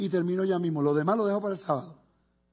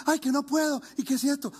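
mock whining; 5 semitones higher than usual. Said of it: "llaman al pastor como".

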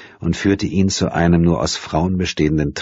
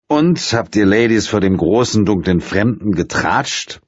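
ponderous; 5 semitones higher, 3 dB louder than usual. A narrator's reading. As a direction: take your time, heavy and unhurried. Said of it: "fragte er behäbig".

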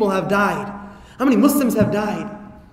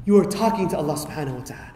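1 hushed; 6 semitones lower, 6 dB quieter, faster than usual. Shown as a demonstration. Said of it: "you feel like".

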